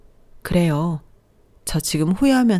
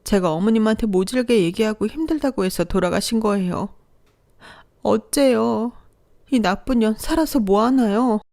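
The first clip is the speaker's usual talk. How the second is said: crying self-reproach; 5 semitones higher than usual. Acted. Blaming herself after mother died.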